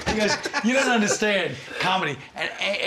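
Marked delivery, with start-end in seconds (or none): 0.6-2.2 slightly raised mock put-down; retold attack. Carson lecturing the comic at the wheel, mock scorn. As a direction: lay into him, imitating a scornful passenger. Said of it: "just attacking him while he's driving".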